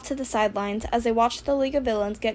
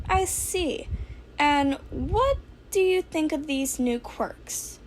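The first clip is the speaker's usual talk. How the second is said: high, chirpy little principal voice; Nezu's voice; 5 semitones higher, slower than usual. Acted. Principal welcoming student, high and chirpy. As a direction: lift the voice up small and polite.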